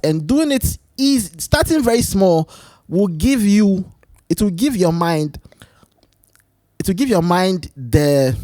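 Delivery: slow, lifted, preachy speaker voice; booming motivational speech. Acted. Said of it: "Why am I trying to talk like a motivational speaker?".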